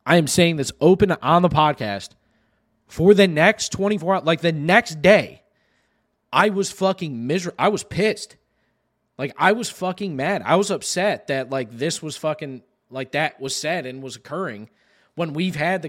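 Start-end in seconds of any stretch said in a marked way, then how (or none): 0.1-11.3 loud, punched-out admission of being pissed; emphatic confession. Real, not acted. Podcaster owning up to being upset, loud and emphatic. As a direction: hammer each phrase home with real frustration. Confessing how angry he was.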